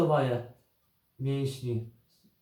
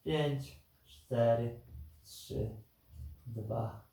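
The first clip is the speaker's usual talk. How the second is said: counting down to go; 3 semitones lower, 7 dB quieter, slower than usual. Acted. Coach counts down a timed hold.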